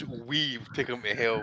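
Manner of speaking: slow, soft mock promoter growl; mock Eddie Hearn. Mocking Eddie Hearn's hype line on the podcast, slow and quiet. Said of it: "This Eddie's like this".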